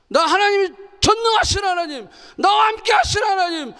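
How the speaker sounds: high, loud proclamation of faith; fervent declaration. Acted. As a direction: proclaim it at full force like a creed. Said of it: "우리 믿음이 이런 거예요". (믿음을 선포하듯 높고 크게 외치기)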